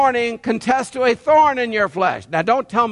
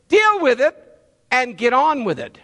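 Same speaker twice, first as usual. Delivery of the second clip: stern God voice; 3 semitones higher than usual. Acted. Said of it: "God says".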